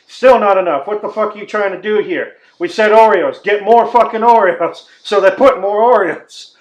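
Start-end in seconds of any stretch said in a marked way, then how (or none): 0.1-4.9 loud, exasperated yelling at the kitchen; mock angry demand. Customer yelling at the cooks for more Oreos, angry shout. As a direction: bark it like a fed-up customer.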